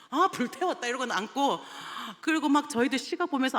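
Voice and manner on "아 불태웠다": louder and higher, smug sigh; girl plopping down after disrupting, louder; cheeky kid. Retold or imitated. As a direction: boast like a kid who just danced.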